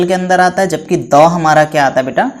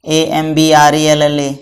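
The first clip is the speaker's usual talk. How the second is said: slow spelling; slower than usual. Shown as a demonstration. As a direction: spell each letter slowly. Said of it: "एएम".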